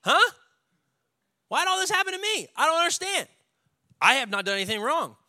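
high, loud, desperate cry of why me; a high cry at the heavens, pleading for answers; anguished complaint to God. Retold or imitated. Job crying out to God in high, loud despair. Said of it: "How many of y'all ever tried to debate with God".

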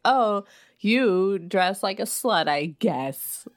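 slow, catty imitation with a dropping end; bitchy sarcasm. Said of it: "Like a bitchy, sarcastic smile".

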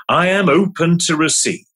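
lifted affirmation, stress on "am". Shown as a demonstration. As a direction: declare "I am open" firmly. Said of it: "here's a mantra or two".

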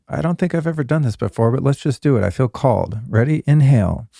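polished, steady host introduction; podcast intro read. Acted. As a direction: present the episode to listeners, phrase by phrase. Reads scripted podcast intro.

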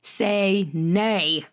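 slow, drawn-out proclamation; mock grand nay. Real, not acted. Answering people who lecture her, slow mock-solemn.

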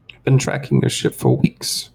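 high, smug bounty hunter; whining alien voice. Acted. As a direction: gloat in a high whine. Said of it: "a high kind of whining voice".

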